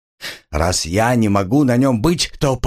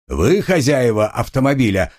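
usual speaking voice

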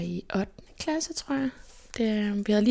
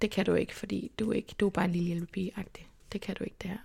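dismissive naysayers; 6 dB quieter than usual. Retold or imitated. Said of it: "dem, der i så mange år har sagt".

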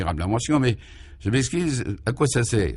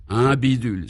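exclaiming. Acted. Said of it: "s'exclama Raphaël".

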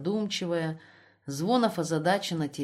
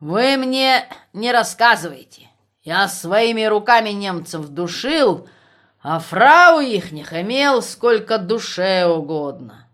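voice breaking; 3 semitones higher, 10 dB louder, slower than usual. A narrator's reading. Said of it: "сказал срывающимся голосом".

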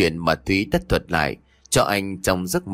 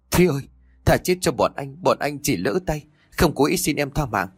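halting fearful plea; 4 semitones higher than usual. Acted. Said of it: "Giọng nói thều thào và đứt quãng".

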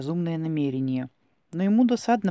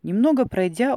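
plain reading voice

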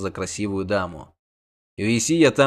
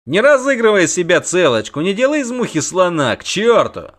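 rough scolding; 7 semitones higher, 6 dB louder than usual. A narrator's reading. Bogold scolds Geralt.

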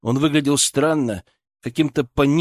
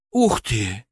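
gasp of wonder. Acted. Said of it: "ахнул студентик".

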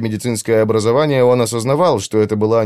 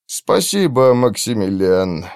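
tense; slower than usual. Acted. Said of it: "напряжённо произнёс он".

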